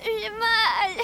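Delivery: tearful moan; hurting and sobbing; crying in pain.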